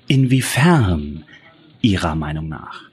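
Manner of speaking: sarcastic dig at the coroner; pointed jab. A narrator's reading. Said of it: "ihre kleine Spitze". (spitz und trocken)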